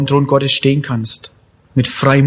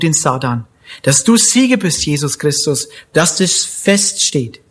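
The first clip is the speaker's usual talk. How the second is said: earnest spoken prayer addressed to God; closing prayer. Real, not acted. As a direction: pray it aloud for the congregation. Pastor leads closing prayer.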